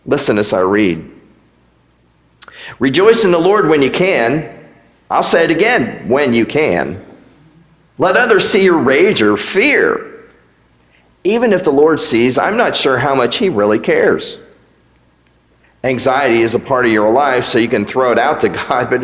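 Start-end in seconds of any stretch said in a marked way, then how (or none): 2.8-4.6 lightly raised, tongue-in-cheek reading of a fake verse; straight-faced satire of a Bible verse; mock scripture reading. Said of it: "a new two thousand twenty-three New Christian Version". 5.1-6.1 slightly higher, a touch of parody in the repeat; tongue-in-cheek scripture repeat; mock solemn. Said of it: "New Christian Version". 6.1-14.4 deadpan the cynical version; mock scripture reading. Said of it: "New Christian Version".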